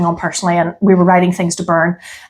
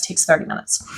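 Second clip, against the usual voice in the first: soft whisper; 3 semitones lower, 8 dB quieter, faster than usual. Real, not acted. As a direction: trail off into a whisper. Repeated phrase, second take whispered.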